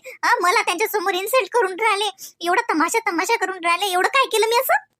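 an upset wife airing her grievances; indignant wife. Acted. A wife venting to herself about her husband's father, indignant.

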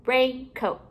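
RAINCOAT with a gap between "rain" and "coat"; two separate parts. Shown as a demonstration. Teacher building compound words for pupils, halves kept apart.

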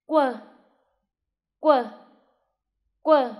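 slow, clear quờ, each one spaced apart; teacher modelling quờ with a falling tone; model sound demo. Shown as a demonstration. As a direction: say quờ three times for the class to copy. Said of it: "Các em nghe cô phát âm".

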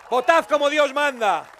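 grito de mitin, lento y agudo; exhortación a voces. Real, not acted. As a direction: lanza la orden al público, fuerte y alargada. Remate de arenga al público. (exhortación política a pleno pulmón)

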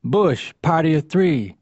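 restaurant host calling the waiting list; mild imitation of a host's announcement; calling out names. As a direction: call out the next table, measured and matter-of-fact. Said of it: "go right on to the next name".

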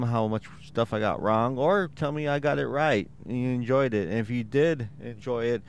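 normal talking voice

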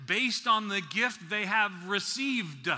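slow, stretched "received" with a punched final d; past-tense emphasis. Shown as a demonstration. Preacher stressing to the congregation the past tense, emphatic final d on "received". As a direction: land hard on the "-d" of "received", almost "received-duh". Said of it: "trying to emphasize the past tenseness of this word".

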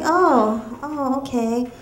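put-on sugary voice turning to a loud baby; fake-nice comeback, punch the last word; a hint of sweet menace ending loud; mock sweet threat. She snaps back at date.

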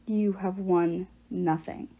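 slow, lightly voiced possessing giant; a hint of a deep, alien voice; possessed deep voice. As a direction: let the giant speak through her, slow. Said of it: "the words as deep as a bass guitar".

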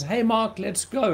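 lightly voiced wife calling out; wife hurrying him out the door, lightly mimicked. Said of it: "Karen comes in and she says".

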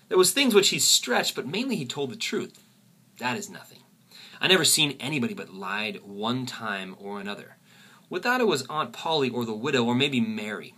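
lightly voiced Huck Finn narration; reading Huck aloud. Teacher reads Huck's opening lines to the class, lightly voiced. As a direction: read the boy's voice plainly, folksy.

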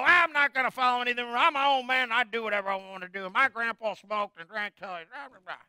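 a hint of a defiant know-it-all, fast; stubborn listener. Preacher voices a listener refusing advice, lightly defiant and fast. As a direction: rattle it off like a dismissive rebel. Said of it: "And you go".

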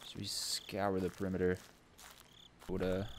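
hushed whisper. Real, not acted. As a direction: whisper it tensely. Whispered in horror game.

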